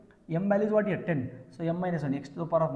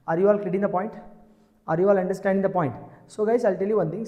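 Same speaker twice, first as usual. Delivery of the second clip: loud check with the class; calling out; 6 dB louder, faster than usual. Real, not acted. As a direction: call it out to the room.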